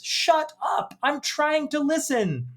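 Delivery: high, strained scream without much volume; mock scream. Husband silencing his wife to hear the radio, mock scream. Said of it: "the guy screams at her".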